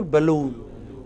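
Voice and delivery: Balloon with the stress on -loon; stress on final syllable. Shown as a demonstration. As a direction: lean on the last syllable of Balloon. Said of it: "where stress is on the final syllable".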